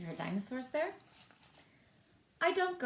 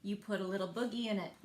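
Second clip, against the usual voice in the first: punchline; faster than usual. Acted. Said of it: "Here's our answer".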